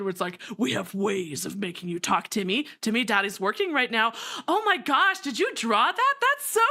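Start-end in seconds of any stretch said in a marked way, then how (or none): 0.6-4.1 put-on low, menacing mobster, easing off for his kid; interrogate, then soften to a busy daddy. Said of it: "the mobster who loves his kid".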